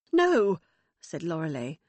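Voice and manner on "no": a high, loud, abrupt "No"; sharp no. Acted. Mother contradicting Megan, a loud sharp no. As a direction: cut her off firmly.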